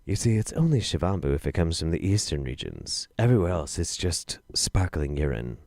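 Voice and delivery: reading it properly for full effect; dramatic reread. Shown as a demonstration. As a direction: savour it like a punchline. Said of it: "Let me say that one more time".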